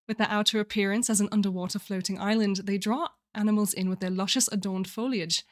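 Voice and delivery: reading in a put-on British accent; lightly performed British narration. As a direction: put on your best British accent to read. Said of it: "in my best British accent".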